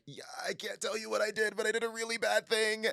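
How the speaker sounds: lightly voiced guilty Victor owning up; sheepish Victor. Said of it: "Victor's like".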